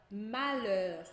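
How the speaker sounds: "malheur" slowly in French, plain L, silent H; LH como L. Shown as a demonstration. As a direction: say "malheur" with L alone, no palatal LH. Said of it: "só o L". ("malheur" em francês, com L simples e H mudo)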